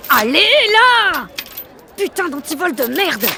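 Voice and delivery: slow, loud grunt of effort; straining effort. Acted. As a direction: force it like a stuck lock. Straining to close bike lock.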